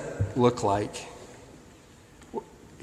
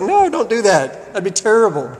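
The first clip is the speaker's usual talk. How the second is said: pleading Moses; 8 semitones higher, 6 dB louder than usual. Retold or imitated. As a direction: beg God not to do it. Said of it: "He's like".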